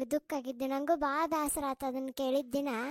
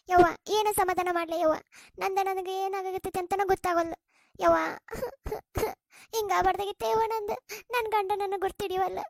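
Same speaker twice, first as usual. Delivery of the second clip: crying lament; 3 semitones higher, 3 dB louder than usual. Acted. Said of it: "ಎದಕ್ ಅಳಾಕತ್ತಿ?".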